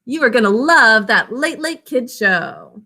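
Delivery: teacher acting out an example use, playful; example sentence. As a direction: sell it like a cheerful promise. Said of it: "Guarantee, like".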